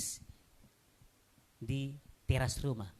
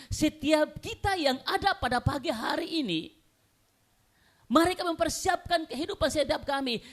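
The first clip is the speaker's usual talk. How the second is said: loud, high-pitched sermon cry; fervent, emphatic pulpit proclamation; full-force preaching; 12 semitones higher, 6 dB louder than usual. Real, not acted. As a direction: drive each phrase home to the congregation.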